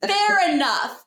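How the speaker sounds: high, slow, wry fair enough; drawn-out concession. Real, not acted. Conceding the fire risk to her friend, slow and wry.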